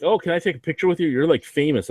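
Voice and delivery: high, fast mock fan gush. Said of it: "people that are like".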